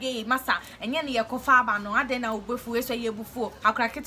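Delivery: imitating an angry mate's shout; retold shouting. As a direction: replay the mate yelling at her, not full force. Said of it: "he is shouting at me".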